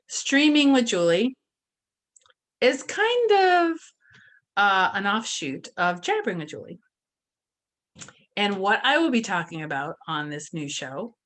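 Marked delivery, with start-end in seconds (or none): 0.1-1.4 loud, high villain announcement; unhinged villain. Acted. Show title repeated louder. 2.6-6.8 unhinged villain. Acted. Continues put-on voice, far.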